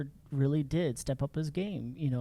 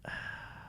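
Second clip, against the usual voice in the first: heavy sigh; 12 dB quieter than usual. Retold or imitated. Dramatic pause before good news.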